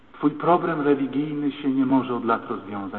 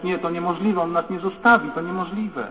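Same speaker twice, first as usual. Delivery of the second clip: higher-pitched, imitated desperate denial; distraught disbelief; 5 semitones higher than usual. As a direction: refuse to believe you've been left. Abandoned wife in disbelief, retold. (wyższy głos, rozpaczliwe niedowierzanie)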